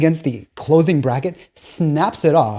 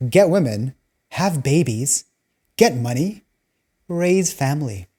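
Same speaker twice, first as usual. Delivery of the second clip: slow, each phrase set apart with pauses; slow, spelled-out slogan; slower than usual. Shown as a demonstration. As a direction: lay the new motto out slowly, item by item. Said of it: "Now it's".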